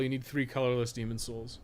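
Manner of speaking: usual speaking voice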